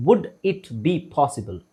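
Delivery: word by word, slowly; slow model phrase. Shown as a demonstration. Teacher models a polite question, slowly word by word. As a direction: space out "Would it be possible" for repeating. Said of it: "ನನ್ನ ಜೊತೆಗೆ ಹೇಳಕ್ try ಮಾಡಿ".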